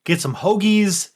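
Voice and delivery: put-on Delco-style Philly accent; rally them in a Philly accent; East Coast accent. Player rounds up the group for hoagies, Philly accent. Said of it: "I might have gotten my accent back".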